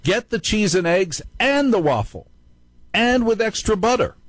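high, mock-tempting Satan voice; Satan's loud whisper. Host mimics Satan tempting him at the Waffle House, high mock voice. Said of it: "Satan whispers to me very loud".

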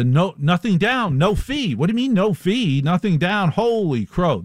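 can't believe the deal; amazed. Real, not acted. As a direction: pitch up in mock disbelief. Amazed at no-fee apartments.

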